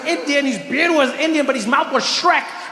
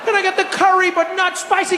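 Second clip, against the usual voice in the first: mock white customer; 8 semitones higher than usual. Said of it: "they'll be like".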